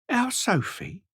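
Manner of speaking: high, shocked disbelief. A narrator's reading. Rose hears Sophie is dead, high and shocked. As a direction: gasp it out in disbelief.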